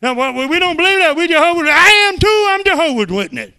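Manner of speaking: loud, high, forceful; loud, high fervent retort; heated preaching. Retold or imitated. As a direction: argue back with full force. Heated exchange with Witness.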